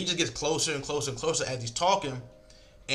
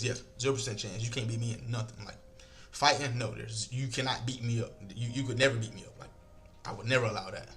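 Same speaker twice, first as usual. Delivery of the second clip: calm confident; 4 dB quieter than usual. Shown as a demonstration. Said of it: "I'm talking just like this".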